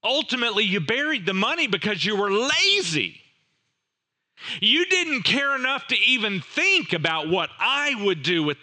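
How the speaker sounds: a hint of a scolding master calling out the servant; mildly stern rebuke, lightly voiced master. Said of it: "He calls him out".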